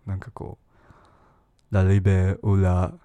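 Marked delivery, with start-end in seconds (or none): 1.7-2.9 slow, louder mock French ラリベウラ モー; hammed-up French accent on ラリベウラ モー; mock French slogan. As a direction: declaim ラリベウラ モー like a French revolutionary, half in jest. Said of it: "ボソボソ喋ってりゃおしゃれみたいな".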